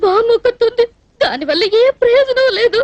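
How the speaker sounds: speaking through tears; tearful complaint, voice catching on sobs; crying. Acted. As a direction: lament your loneliness while crying. Girl weeps, no one to marry her.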